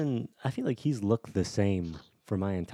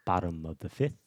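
Morgan Freeman calling baseball. Retold or imitated. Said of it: "Imagine Morgan Freeman calling a baseball game".

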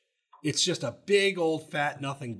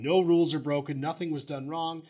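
lightly voiced, hurried indignant coach, a bit louder; Jimbo impression; 3 dB louder, faster than usual. Podcast host reading Jimbo's press-conference quotes, light mock impression. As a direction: rattle it off like a riled-up coach, only lightly put on. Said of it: "How's my impression?".

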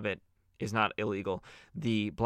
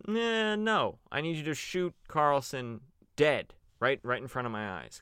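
high, smug villain; mock villain voice; 4 semitones higher than usual. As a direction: ham up a gleeful crime boss. Villain demands a murder.

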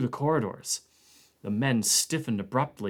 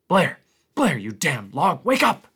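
loud, high angry wake-up call; urgent shout across the bunks; shouting to wake him; 5 semitones higher, 8 dB louder than usual. Acted. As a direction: yell him awake, furious. Connant waking Blair angrily.

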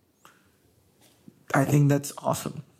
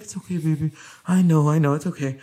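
soothing; faster than usual. Retold or imitated. Partner soothing her crying.

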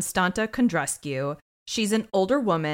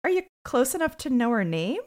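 nice but snarky; 5 semitones higher than usual. Retold or imitated. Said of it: "She says this nicely, but it's a snarky thing".

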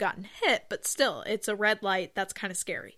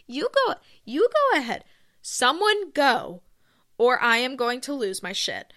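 high, fast, sing-song fake politeness, fraying at the end; mock overpolite driver; 5 semitones higher, 4 dB louder than usual. Mocking drivers at a four-way stop, sing-song overpolite. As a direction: mimic drivers waving each other on until it snaps. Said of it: "they're like".

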